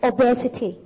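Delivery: "obesity" said slowly for repeating; pronunciation model. Shown as a demonstration. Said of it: "ออกเสียงค่ะลูก". (ออกเสียง "obesity" ช้าๆ ให้พูดตาม)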